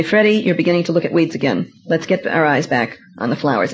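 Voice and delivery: mother softly cheering her melancholy son; lovingly. Retold or imitated. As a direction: gently lead him back to the flowers. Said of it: "but lovingly say".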